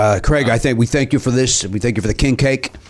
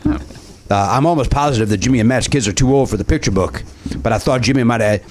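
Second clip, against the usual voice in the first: put-on Cajun accent. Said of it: "you're still doing the accent".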